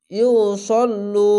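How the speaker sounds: ইউসল্লু slow, the vowel held one beat; one-beat stretch. Shown as a demonstration. Teacher reciting for the class, slow stretched reading. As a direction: draw out ইউসল্লু slowly. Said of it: "পেশের পাশে অসাকিন এক আলিফ টেনে পড়বেন".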